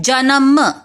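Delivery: जन्म said as जनम with full न; wrong form. Shown as a demonstration. Teacher shows pupils' wrong जन्म. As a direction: mimic the mistake जनम. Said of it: "यह अशुद्ध शब्द है".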